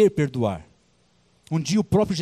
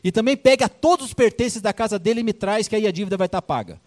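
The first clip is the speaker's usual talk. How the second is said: louder commanding king; king ordering guards to sell the servant's family; 4 semitones higher, 4 dB louder than usual. Acted. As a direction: give the guards a curt royal order. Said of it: "chamou os guardas e falou assim".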